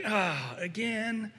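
irritated, impatient voice rising to a shout; mock annoyed complaining, building to a near shout; Satan as an exasperated god. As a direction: sigh it out, fed up and worn out by the asker. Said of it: "he's like".

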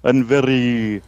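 lightly voiced vampire count host; spooky Count. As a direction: draw out words like a horror-show Count, lightly. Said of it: "I'm Count".

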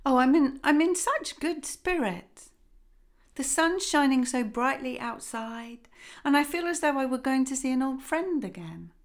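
the father beaming with delight; lightly voiced joyful father.

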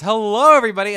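upbeat host opener; cheery greeting. Retold or imitated. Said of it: "Eddie started with his".

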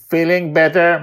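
loud, level robotic voice. Acted. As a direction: ask like a caring robot. Mastermind asks.

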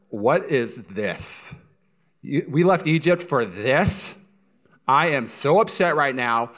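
slow, drawn-out mock indignation; indignant grumbling. Israelites grumbling weeks after the Red Sea, slow mock indignation. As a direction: complain word by word, acting upset. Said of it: "And they start grumbling".

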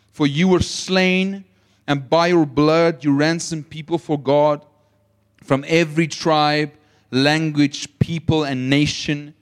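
solemn Bible reading, settling low at the end; scripture reading. Acted. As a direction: read the verse out reverently to the church. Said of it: "Listen to this".

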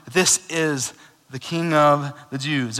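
slow, sneering sign read aloud; sarcastic. Acted. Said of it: "It was very sarcastic".

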